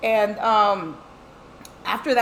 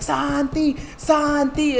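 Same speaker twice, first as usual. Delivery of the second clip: drawn-out, higher-pitched name calling; taunting sister; 4 semitones higher, much slower than usual. Retold or imitated. Sister calling the ghost to taunt, imitated call. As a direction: imitate a teasing singsong summons. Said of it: "She started fucking saying that".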